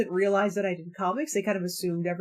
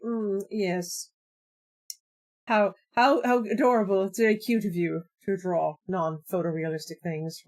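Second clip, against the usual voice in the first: lightly voiced condescending art snob; a hint of a smug critic patronizing you; mild mock snobbish praise; snooty elitist. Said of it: "He's one of these elitist assholes".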